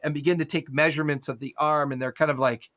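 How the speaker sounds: ordinary talk, nothing marked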